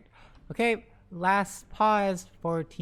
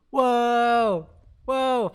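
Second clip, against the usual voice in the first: amazed gasp; 2 semitones higher, 5 dB louder than usual. Real, not acted. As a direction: react in real awe. Amazed at five-hero smoke.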